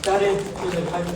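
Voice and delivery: measured, sung-through poetic recital with pauses between half-lines; ghazal recitation. Acted. Poet reciting his ghazal to a mushaira audience, declaiming.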